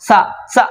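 সা cut very short; very short vowel. Shown as a demonstration. Teacher showing how short it is, short vowel. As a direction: say সা as a quick, short syllable. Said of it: "এটা উচ্চারণটা খুব ছোট".

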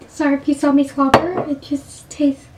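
talking with numb lips; words slurred by numb lips. Real, not acted. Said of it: "my lips are, like, numb now".

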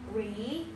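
RE, PRO, DUCE as three separate soft beats; pronunciation demo. Shown as a demonstration. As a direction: break "reproduce" into syllables with small gaps. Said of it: "this is how you pronounce it".

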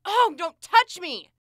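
high, loud, drawn-out recoil; angry protest. Acted. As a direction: push him away with your voice. Fending off a pushy ex.

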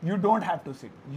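slow, smooth model sentence said whole; slow full sentence. Shown as a demonstration. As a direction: say it slowly as one phrase. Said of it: "तो you लगा देंगे इसमें". (पूरा वाक्य धीरे से एक साथ)

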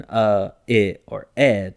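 "uh, I, or eh" as separate short vowel sounds, the I as a short "ih"; "uh, I, or eh" sounded out as example vowels; schwa variants. Shown as a demonstration. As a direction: give "uh", then "I" as in "it", then "eh". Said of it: "it can sound kinda like".

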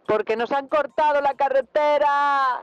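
high, drawn-out shout rising to a yell; shouted complaint. Real, not acted. Children protesting that the road is cut, shouting. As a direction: call it out high, ending in a scream.

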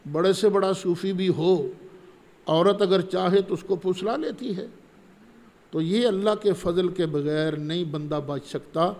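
usual speaking voice

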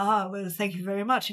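softly understated gracious reply; lightly voiced gentleman thanking a fan; suave, sweet. Manager thanks a gushing fan, mildly suave. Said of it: "And he's so suave".

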